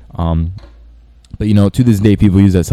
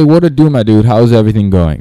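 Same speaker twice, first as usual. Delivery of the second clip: mirrored customer greeting. Acted. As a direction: lightly copy the dude's lively greeting. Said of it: "You copy their voice".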